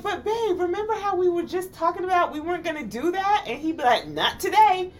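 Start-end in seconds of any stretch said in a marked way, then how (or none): 0.0-3.4 high-pitched coaxing plea; imitated wheedling, pitched well up; pleading reminder. Voices herself pleading with partner. 4.1-4.9 high, louder mock refusal; imitated stubborn comeback; defiant refusal. Voices partner refusing to back down.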